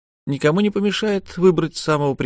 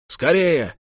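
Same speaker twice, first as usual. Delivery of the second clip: distant call; 7 semitones higher than usual. A narrator's reading. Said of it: "крикнули уже издали".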